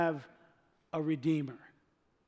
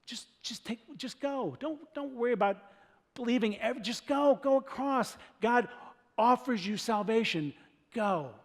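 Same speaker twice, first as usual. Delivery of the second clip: gentle urging; 4 semitones higher than usual. Retold or imitated. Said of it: "I just wanna go".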